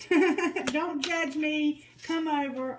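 laughing. Real, not acted. Laughing at booty call message.

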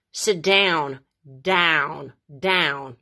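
"down" slowed with an American "au"; "sit down" said slowly, American-style; "down" drawn out like an American. Shown as a demonstration. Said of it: "zic americanește".

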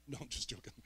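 chuckling through the words; amused, laughing retraction. Real, not acted. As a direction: laugh as you take the joke back. Joke about shameful addiction book.

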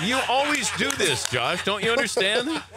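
high, drawn-out teasing reproach; teasing scolding. Real, not acted. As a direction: scold playfully, pitch jumping up. Teasing scolding amid laughter.

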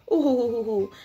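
dainty put-on giggle in syllables; mock girlish hoo-hoo laugh; acted titter.

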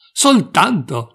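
a country mouse aghast at the word only; exclaimed. A narrator's reading. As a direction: stretch out a shocked "Soltanto!" in dismay. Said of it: "esclamò il topo di campagna".

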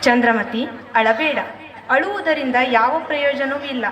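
calm her though he grieves too; consoling. Acted. Husband consoles weeping wife. (ಸಮಾಧಾನದ ಧ್ವನಿ)

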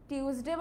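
টিউসডে with a hard T, "tyus-day"; hard T at the start of টিউসডে; common pronunciation. Shown as a demonstration. Teacher quoting how many people say it, hard-T Tuesday. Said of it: "অনেকে এটাকে কি বলে?".

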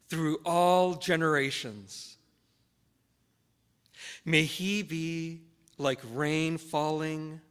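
slow, measured Scripture reading with long pauses. Real, not acted. Pastor reading a psalm for the congregation's call to worship, slowly. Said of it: "I'm gonna read them slowly".

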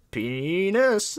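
long, high, loud drawn-out shout; game yell. Retold or imitated. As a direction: stretch the word into a yell. Player yells it in the game.

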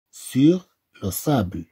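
slow careful "Sur le sable"; slow model phrase. Shown as a demonstration. Teacher repeating the phrase for pupils, slow and careful. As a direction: repeat it slowly for the class. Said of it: "هنا عندنا".

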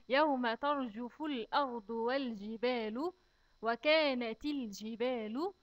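slow, measured tajweed chant; measured recitation of the verse; slow Quran recitation. Shown as a demonstration. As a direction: recite it carefully for the children.

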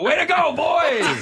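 high, loud cheer from the bench; hockey bench shout. Retold or imitated. Hockey player on the bench shouting way to go. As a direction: yell it like a teammate after a shift. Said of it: "I feel like a hockey player".

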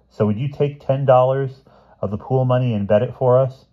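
keen, pushy schoolboy voice; eager schoolboy. A narrator's reading. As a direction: sell the scheme eagerly to the headmaster.

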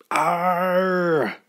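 contained acted scream; mock scream. A narrator's reading. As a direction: hold out a storybook cry of fright. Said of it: "screamed the fisherman".

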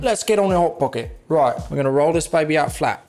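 playful fake British accent; put-on British cooking host. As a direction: get going in a mock-British voice. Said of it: "use my British accent".

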